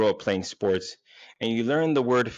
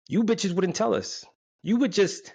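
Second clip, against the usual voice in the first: mock outrage; 12 semitones higher than usual. Rant at women.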